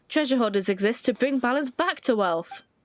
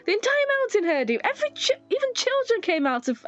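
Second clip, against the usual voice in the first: higher, teasing small companion; 6 semitones higher than usual. Acted. Paimon teasing the hoarder about shouting, higher and cheeky. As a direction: poke fun at the stranger's shouting.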